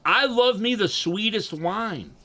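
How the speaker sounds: hammed-up diva ordering a cosmo; mock girly cocktail order. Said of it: "I will fucking gladly say".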